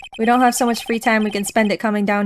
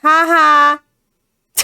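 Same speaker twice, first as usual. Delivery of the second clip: loud, theatrical "ha ha"; forced laugh; 5 semitones higher, 7 dB louder than usual. Acted. Fallen attorney dares visitors to laugh, loud forced laugh. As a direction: spell out a mocking fake laugh. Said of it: "Then laugh, laugh".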